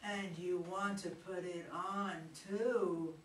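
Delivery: low, soft seductive purr; sexy voice. Acted. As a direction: tease him softly and low. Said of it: "in a very sexy voice".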